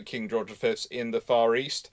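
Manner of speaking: ordinary delivery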